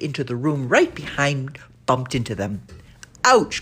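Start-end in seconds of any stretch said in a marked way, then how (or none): 3.2-3.6 sharp high yelp of pain; cry of pain. Acted. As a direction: yelp as your heel is stepped on. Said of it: "cried Danny".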